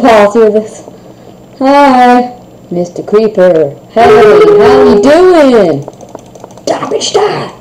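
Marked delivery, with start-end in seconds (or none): 1.6-5.8 mock friendly greeting. Greeting a creeper in game. 6.6-7.6 squeaky battle cry. Pretend. Attacking the creeper in game.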